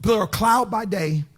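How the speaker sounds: measured, falling scripture reading; scripture recitation. Acted. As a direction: recite the verse with weight. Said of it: "the Bible said".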